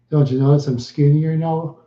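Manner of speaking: ordinary talk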